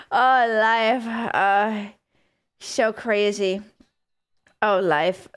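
lightly hammed-up melancholy, slow; mock sad sigh. Streamer imitating a game character staring at the sky, mock sad. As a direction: imitate someone gazing sadly at the sky. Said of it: "he looked so sad".

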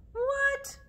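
very high squeaky what; mock surprise. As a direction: act shocked for little kids.

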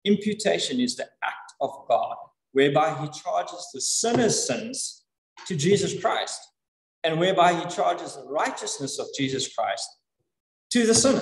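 measured, deliberate defining with pauses; slow definition. Shown as a demonstration. Preacher defining imputation for the congregation, slow and deliberate. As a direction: say it slowly, phrase by phrase. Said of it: "I'll say it pretty slowly".

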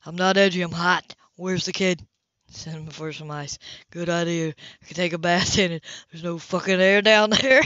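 loud, testy, hot-tempered man; irritated shout. Acted. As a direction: snap back in frustration. Cam snaps in the heat.

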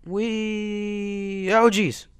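high held squeal into sudden exclamation; playful cry turning to alarm; whee cut short. Real, not acted. Whee broken by game mishap.

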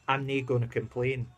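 put-on a light, passing Scottish accent. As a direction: slip briefly into a mild Scottish accent. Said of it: "don't know why I went into Scottish then".

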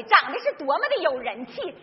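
usual speaking voice

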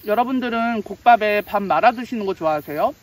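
talking while chewing; muffled behind fingers; hand at mouth. Real, not acted. Seen 2: Fist pressed to lips while talking and eating, then hand waves away.

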